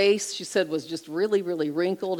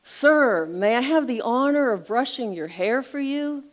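raised voice, repeating the question; a little louder; 6 semitones higher, 4 dB louder than usual. Retold or imitated. Woman repeats her offer louder to a deaf man, raised voice. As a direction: say it again, louder so he hears. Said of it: "again, a little louder".

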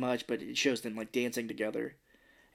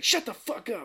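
laughing snap; 9 semitones higher than usual. Retold or imitated. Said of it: "she's like".

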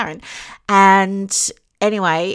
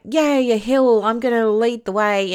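excited; 5 semitones higher, 4 dB louder than usual. Retold or imitated. Gleeful self-quote about leading hikes.

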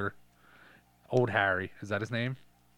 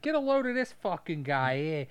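tough guy voice; 6 semitones higher than usual. Retold or imitated. Mocking the tough Detroit guy.

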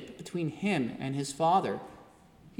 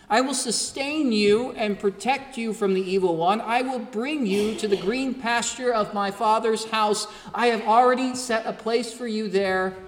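impassioned preacher's promise, pitch lifted; Jesus; 4 semitones higher than usual. Acted. Good Shepherd promising life to a terrified flock, impassioned. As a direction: build in intensity and hold it high. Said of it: "as the voice of Jesus calls out".

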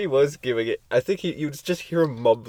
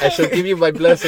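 mock solemn voice; 5 semitones higher, 8 dB louder than usual.

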